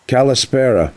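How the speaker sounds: called out high across the garage; hollered greeting. A narrator's reading. Mandy greeting his friend across the workshop, hollered. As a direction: holler it from the bay entrance. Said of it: "Mandy hollered".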